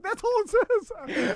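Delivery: exasperated. Retold or imitated. Exasperated retelling of the call.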